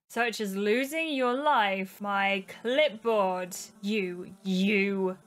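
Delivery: slow, ominous ghost threat; slow, mildly menacing ghost. Acted. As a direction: draw out every word with cold outrage. Ghost threatens after being slapped.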